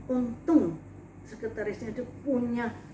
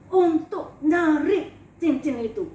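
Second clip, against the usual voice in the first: tearful demand; 3 semitones higher, 7 dB louder, slower than usual. Retold or imitated. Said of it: "cry on line".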